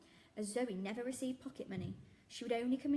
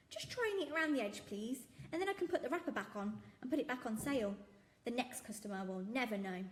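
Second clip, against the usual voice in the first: jolly shopkeeper; 3 semitones higher than usual. Acted. Raj's voice.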